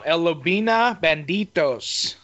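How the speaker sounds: slow, careful Mexican Spanish accent. Shown as a demonstration. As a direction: roll the name out in a light Mexican accent. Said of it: "I can say that with my Mexican accent".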